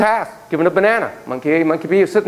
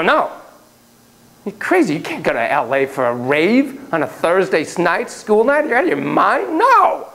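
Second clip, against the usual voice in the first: exasperated parent; 3 semitones higher than usual. Shown as a demonstration. Parent refusing teen's rave trip, exasperated scolding. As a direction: scold the teen, rising in disbelief. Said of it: "you go".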